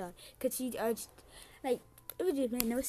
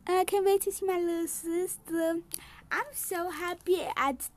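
lightly acted, higher gushing; play-acted happy caller; 4 semitones higher, 5 dB louder than usual. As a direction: gush down a pretend phone line. Voicing a happy phone call.

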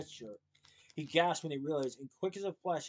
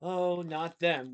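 dismayed cry; 2 semitones higher, 5 dB louder, much slower than usual. Acted. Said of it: "Willie cried".

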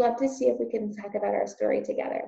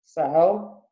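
a louder gruff shout; a mild shout from the uncle; 3 semitones lower, 7 dB louder than usual. Acted. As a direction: bark it back at her. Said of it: "shouted Uncle back".

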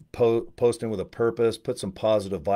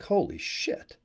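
sudden high-pitched gasp of disbelief, but softer; stunned holy shit; 9 semitones higher, 4 dB quieter, slower than usual. Retold or imitated. Telling viewers about his payday, high astonished exclamation. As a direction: shoot the pitch way up in shock. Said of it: "and I'm like".

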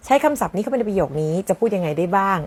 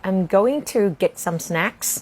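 very slow, word by word, rising at the end; slow teacher example; slow model sentence; much slower than usual. Shown as a demonstration. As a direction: spell it out slowly for the class. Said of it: "model sentence".

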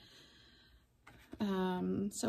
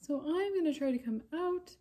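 a timid little puppet peeking out; shy puppet; 3 semitones higher than usual. Acted. Puppet greets class.

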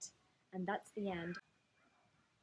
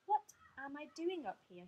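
mildly forlorn, higher-pitched wondering; sad; 5 semitones higher than usual. Acted. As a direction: wonder it aloud, a touch lost.

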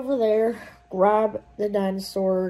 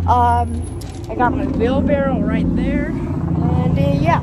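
excited; 8 dB louder than usual. Real, not acted. Excited at dinosaur, hushed plan.

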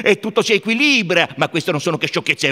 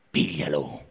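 ordinary delivery, nothing marked

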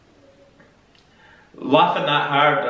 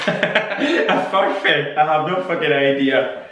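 laughing; 3 semitones higher, slower than usual. Real, not acted. Laughing at the word.

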